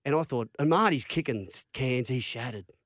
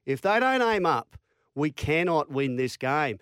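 raised, emphatic ultimatum to the team; retold team-talk warning, slowing for weight at the end; stern coach's warning.

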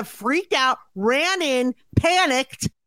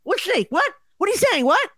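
higher, rapid-fire freaked-out questions; mock panic; 6 semitones higher than usual. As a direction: act like you just jumped out of your chair. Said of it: "flown out of our chairs to be like".

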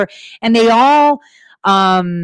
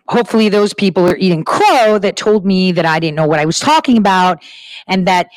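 ordinary talk

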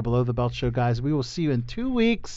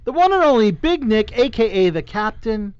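hype introduction; 6 semitones higher, 5 dB louder than usual. Acted. Hyping up the co-host.

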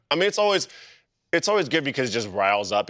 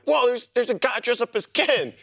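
high, amazed double take; surprised; 12 semitones higher than usual. Retold or imitated. Spotting a guy dressed as Ken across the street, surprised. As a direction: spot your friend in costume and react, pitched up. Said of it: "I'm like".

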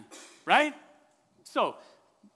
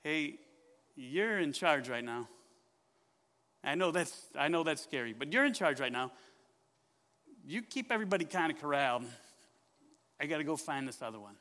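reassuring shepherd; 3 semitones lower than usual. Acted. Shepherd leaves flock in charge.

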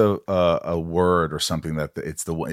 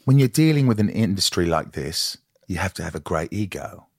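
more careful London-area English accent; improved English accent. Shown as a demonstration. Host retrying the accent for the actor, English accent. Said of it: "let me do it better".

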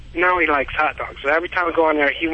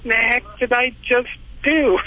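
mock dismay; 7 semitones higher than usual. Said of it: "I go".

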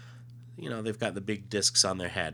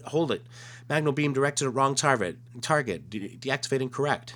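alien voice; 6 semitones higher, 3 dB louder than usual. Acted. Alien correcting the beam.

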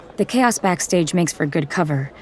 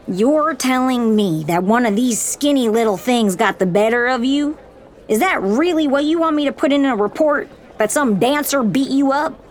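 high, scornful commanding voice; mocking officer; 8 semitones higher than usual. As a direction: ridicule him, rising in disbelief. Officer mocks the recruit.

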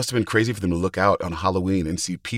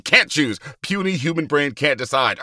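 Hulk voice; 3 semitones higher than usual. Pretend. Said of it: "your Hulk self".

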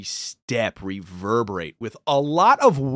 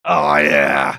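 mock emphasis; 11 semitones lower, 6 dB louder than usual. Real, not acted. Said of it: "You're not giving this enough emphasis".

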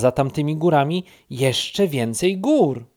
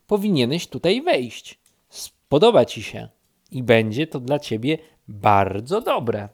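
calling down; 5 dB louder than usual. Acted. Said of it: "krzyknęła Misia w dół".

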